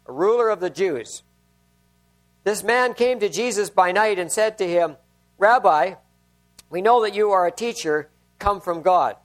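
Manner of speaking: measured, solemn Bible reading to the congregation; scripture reading. Acted. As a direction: read the passage steadily, letting each verse land. Reads John chapter three aloud.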